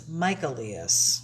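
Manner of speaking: Michaelius said slowly as MY-kuh-lee-us. Shown as a demonstration. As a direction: open Michaelius on Micah, slowly. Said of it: "he said it's actually Micah".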